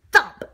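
loud, sudden thump. A narrator's reading. Phone falls from donut's hand, loud thump. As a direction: punch it out like a falling object.

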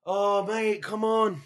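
high, drawn-out plea; pleading. Retold or imitated. Drunk man protesting to the policeman searching him, pleading.

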